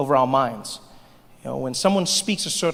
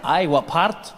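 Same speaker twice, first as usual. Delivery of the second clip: put-on a light Scottish accent, a bit louder; Scottish shopkeeper; 4 dB louder, slower than usual. Edinburgh shopkeeper testing Trevor, light Scottish accent. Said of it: "They'd be like".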